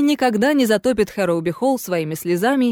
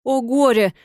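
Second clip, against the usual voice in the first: lamenting; 2 semitones higher than usual. Acted. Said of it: "запричитало привидение".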